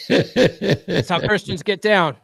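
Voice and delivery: slow, chuckling through the words; laughing. Real, not acted. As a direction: laugh it out slowly at the dark joke. Joke about Vikings being killed.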